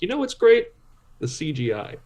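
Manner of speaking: high mock praise dropping off; sarcastic fan. Imagined fan mocking the trailer, sarcastic praise. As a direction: fake enthusiasm, deadpan at the end. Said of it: "nobody sitting there watching that trailer going".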